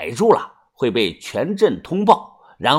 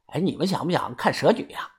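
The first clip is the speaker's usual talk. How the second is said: softly lowered voice; hushed approach; 8 dB quieter, faster than usual. A narrator's reading. Stranger leaning in to offer a forbidden sight, hushed. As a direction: drop the volume as if sharing a secret. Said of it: "他凑过来小声地说".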